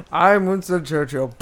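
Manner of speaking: slow, gruff Churchill impression; mock Churchill. Mock Churchill after Oldman talk.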